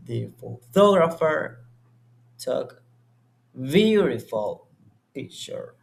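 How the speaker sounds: steady tune that drops away on "picture"; falling statement intonation. Shown as a demonstration. Student demonstrating a normal statement to the tutor, falling tune. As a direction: say it as a plain fact and let the pitch fall at the end. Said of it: "the intonation is falling because it is a normal statement".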